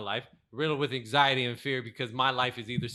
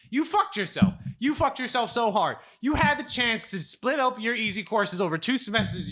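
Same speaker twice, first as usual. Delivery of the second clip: put-on girlfriend's blunt truth; 5 semitones higher, 4 dB louder than usual. Girlfriend Cassie voiced in story.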